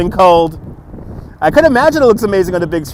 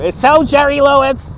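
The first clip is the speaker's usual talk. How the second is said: nasal-free goofy nerd voice, pitched up; nerdy voice; 5 semitones higher than usual. Acted. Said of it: "It's my nerdy voice".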